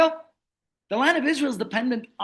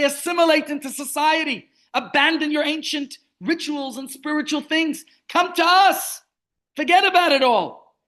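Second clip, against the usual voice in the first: tempting voice; 4 semitones higher than usual. Acted. Wolves calling the Jews to leave Judaism, luring and rising. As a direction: lure them in, growing more insistent.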